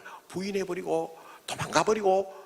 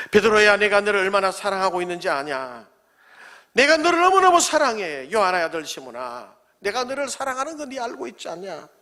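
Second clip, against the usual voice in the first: fervent loving plea; 3 dB louder than usual. Retold or imitated. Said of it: "뜨거운 사랑의 마음".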